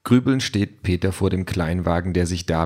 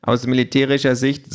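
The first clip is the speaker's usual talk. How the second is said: higher, matter-of-fact machine lecturer; lightly voiced opinionated gadget; 5 semitones higher than usual. Talking tablet justifies the folding robot, lightly voiced know-it-all. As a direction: explain it like a small military expert. Voices Pink explaining military logic.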